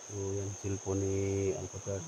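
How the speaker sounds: low, soft voice.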